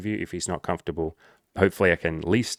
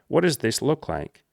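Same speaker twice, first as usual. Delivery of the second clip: higher, pleading mock whine at first; mock whiny client; 3 semitones higher than usual. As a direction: imitate a helpless student begging for answers. Mocking a needy client.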